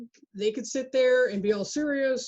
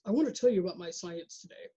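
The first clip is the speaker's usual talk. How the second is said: flat, unmodulated mock-serious lecture voice; monotone boring scientist; 4 semitones lower, 4 dB quieter than usual. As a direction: drone it out like a dull, serious researcher. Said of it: "I'm not gonna modulate my voice in any way".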